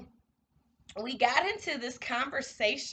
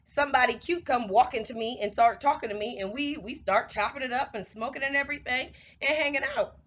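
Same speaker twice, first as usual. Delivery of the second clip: put-on light, breezy white girl voice; a hint of valley girl. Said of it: "I'm talking in a white girl voice".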